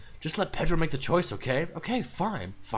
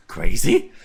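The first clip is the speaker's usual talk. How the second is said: taunting; 3 semitones lower, 7 dB louder than usual. Acted. Yuri taunting Monika.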